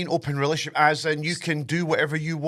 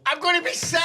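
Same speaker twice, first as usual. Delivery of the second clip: mock disgust; 13 semitones higher than usual. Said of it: "repeated louder and higher".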